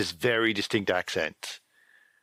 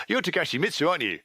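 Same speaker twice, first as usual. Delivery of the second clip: seeing through disguise; 8 semitones higher, much faster than usual. Acted. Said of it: "Perfect Land people see through immediately".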